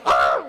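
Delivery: loud, low blurted "ah"; short, loud mock cry; imitated outburst. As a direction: imitate a sudden involuntary outburst. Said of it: "prosecutor lets out a".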